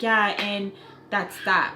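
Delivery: slow, uninterested mock summary; dry storyteller. Imitating people who give no details, dry. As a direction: drag it out like someone with nothing to add. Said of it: "one dry ass freaking conversation".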